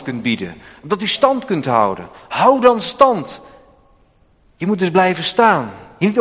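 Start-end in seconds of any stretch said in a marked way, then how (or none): 2.3-3.4 much higher, slow, every word leaned on; emphatic command. Real, not acted. Preacher urging the church to stand firm, slow emphatic command. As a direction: hammer home "Hou dan stand" slowly.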